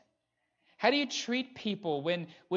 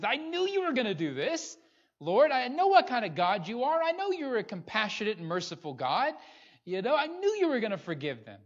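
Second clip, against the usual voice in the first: resentful Jonah; 5 semitones higher than usual. Retold or imitated. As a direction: grumble at God's mercy. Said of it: "the same kind of attitude".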